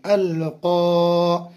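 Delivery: अल क़ा with the long aa of क़ा stretched slowly; drawn-out syllable. Shown as a demonstration. Teacher sounds out अल क़ा for students, stretched. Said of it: "बड़ा काफ़ी अलिफ मद्दा है".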